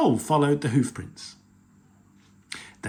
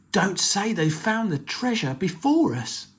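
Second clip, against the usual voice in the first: pirate voice; 8 semitones higher than usual. Acted.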